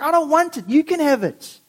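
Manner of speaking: dismissive acted refusal; angry. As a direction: wash your hands of it, miffed. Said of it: "And he's angry".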